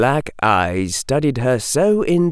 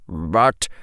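stern professor voice; 5 semitones lower than usual. Acted. Snape voiced in story.

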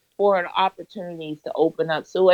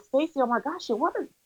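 excited; 6 semitones higher than usual. Retold or imitated. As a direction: gush the good news to a mentor, reenacting it. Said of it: "I was so excited".

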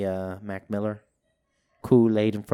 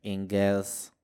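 put-on a light English accent; lightly affected English accent; slower than usual. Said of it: "That's his English accent".

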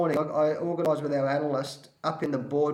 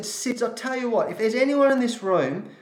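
higher, louder, forceful retelling; firm challenge; 4 semitones higher, 3 dB louder than usual. Retold or imitated. Coach challenging players to face the loss, raised and forceful. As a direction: dare the room to walk out, raising the voice. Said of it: "I said".

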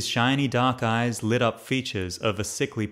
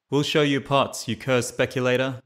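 threatening; 3 semitones higher than usual. Acted. Militiaman threatening the old woman he drags away, mild menace. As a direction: threaten her while dragging her off. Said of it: "the man threatened".

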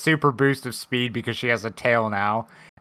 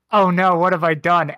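mock panic; 5 semitones higher, 6 dB louder than usual. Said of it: "she's like".

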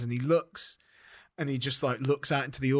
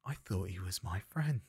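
low, soft, wounded realisation; quiet hurt; 4 semitones lower, 8 dB quieter than usual. Acted. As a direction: say it small and low, betrayed. Acted hurt at friend's betrayal.

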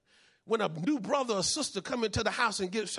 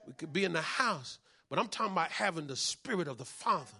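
much softer, lower, quick aside; sudden hush; 6 semitones lower, 6 dB quieter than usual. Real, not acted. Preacher quietly pressing the point, hushed and low. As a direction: drop right down to a murmur.

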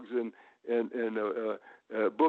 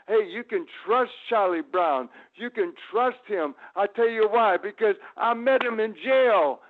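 retold wrestling promo; 7 semitones higher, 4 dB louder than usual. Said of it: "I says".

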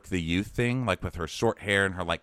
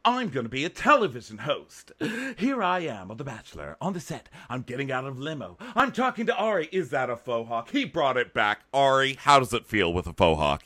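aspiring TV host; 4 semitones higher than usual. Retold or imitated. Imitating an acting-class girl hosting on the set, mock presenter. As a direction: present everything as if on camera. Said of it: "she is so that girl in, like, Commercial Class".

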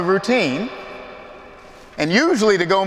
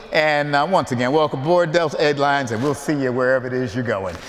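lightly imitating a cool airline pilot; a hint of laid-back cockpit announcement. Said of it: "they had that pilot voice".

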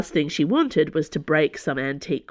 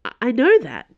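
higher, louder, stammered protest; a touch of desperation, stumbling on the first word; desperate; 6 semitones higher, 6 dB louder than usual. A narrator's reading. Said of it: "Dana said desperately".

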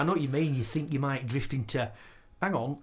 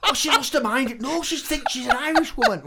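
louder, high laughing; 11 semitones higher, 7 dB louder than usual. Real, not acted. Friend laughing about the confused mother. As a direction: giggle out the words.

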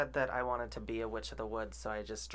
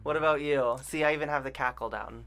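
loud; 4 semitones higher, 11 dB louder than usual. Real, not acted. Right after the witch cackle.

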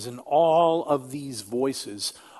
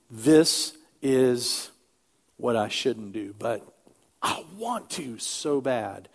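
pleading desire voice; 2 semitones lower, 3 dB quieter, slower than usual. Retold or imitated. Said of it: "the voice of my desires says".

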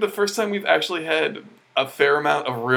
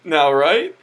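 louder, higher pleading mock voice; mock Craig; 7 semitones higher, 6 dB louder than usual. Mimicking Craig asking if the joke is okay now, pleading rise. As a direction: beg for agreement, rising higher. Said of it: "Craig's like".

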